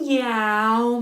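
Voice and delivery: long drawn-out cat meow. Shown as a demonstration. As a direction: meow like a cat while massaging. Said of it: "meow like a cat".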